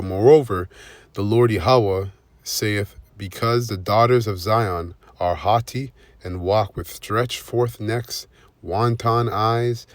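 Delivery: slow, weighty reading of scripture. Acted. Preacher reads Isaiah to his viewers, slow and weighty. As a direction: lean into each verse, slow and grave.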